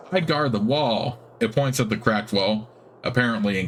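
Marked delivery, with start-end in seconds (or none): 0.1-1.2 squeaky spider voice. Acted. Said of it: "It has a squeaky, high-pitched voice".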